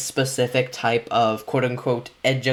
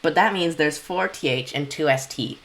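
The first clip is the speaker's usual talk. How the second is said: higher-pitched innocent read-aloud, easing down toward the end; 4 semitones higher than usual. Acted. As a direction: read it like you suspect nothing. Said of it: "like, an innocent voice".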